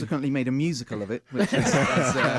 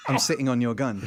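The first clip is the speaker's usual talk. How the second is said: startled exclamation. Retold or imitated. Retelling finding the gun on the seat.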